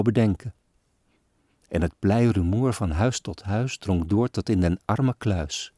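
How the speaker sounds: measured, solemn poem reading; poem recitation. A narrator's reading. Reader recites a sad Christmas poem, solemn and measured. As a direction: recite the old verses with gravity.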